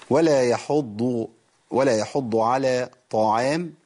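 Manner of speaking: يحض with an emphatic ḍad and طعام with a light ʿayn, slow; slow recitation, heavy ḍad in يحض; correct ḍad recitation. Shown as a demonstration. Quran teacher reciting the corrected verse slowly. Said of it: "ضو مش طو".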